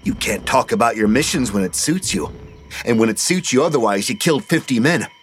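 a hint of bitter scorn at grandpa; angry accusation. Petey confronts grandpa angrily.

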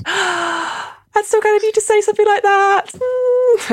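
high, gushing little creature voice; flattered kobold voice. Acted. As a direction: gush like a flattered tiny kobold.

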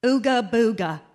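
silly puppet voice. Retold or imitated. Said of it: "say the funniest thing I can think of".

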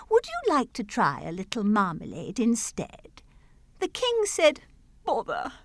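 measured storytelling verse; poem read aloud. Acted. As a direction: read it like a nursery rhyme.

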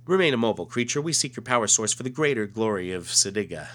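lightly voiced alien officer giving orders; alien commander. Reads alien's comic dialogue.

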